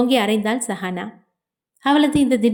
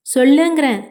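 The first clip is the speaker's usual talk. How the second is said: louder, higher barked order; furious shout; 4 semitones higher, 5 dB louder than usual. A narrator's reading. Grandfather roaring at Ambika to speak. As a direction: bellow it, ready to strike.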